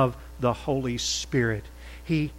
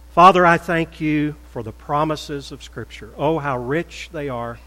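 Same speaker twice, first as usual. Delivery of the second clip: calm, earnest closing prayer to God; pastoral prayer. Acted. Pastor praying over the congregation, in a calm earnest voice.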